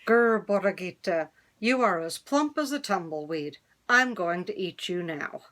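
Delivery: a hint of a hungry coyote growling; lightly voiced coyote threatening the lamb; mild growl. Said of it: "He growled".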